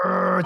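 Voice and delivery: a short playful growl; mock growl. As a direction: growl like you're staring him down. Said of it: "just grill him".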